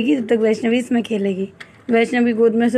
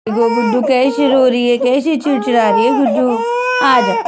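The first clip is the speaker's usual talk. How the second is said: raised voice over crying; 5 dB louder than usual. Real, not acted. Baby crying, mother calls over.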